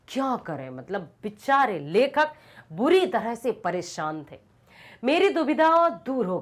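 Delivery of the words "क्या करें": softer, lower, giving up; defeated trailing question; helpless murmur. Acted. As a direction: let the question sink away hopelessly. Dilemma repeated, sinking.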